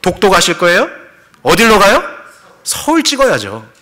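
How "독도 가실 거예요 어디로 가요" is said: normal talking voice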